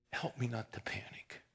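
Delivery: urgent whisper to God; whispered prayer. Retold or imitated. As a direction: breathe the plea, no voice. Quoted panicked prayer.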